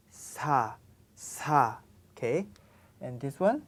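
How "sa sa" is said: "Sa" with a soft, light s, softer than English S; soft Korean s. Shown as a demonstration. Teacher models the soft Korean "sa" for students. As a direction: breathe a gentle "sa". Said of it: "it's much softer than English S sound".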